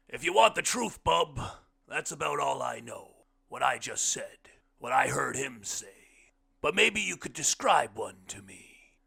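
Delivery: the blind man speaking up, earnest and insistent. Acted. Blind man asking his host to describe a cathedral, loud and high.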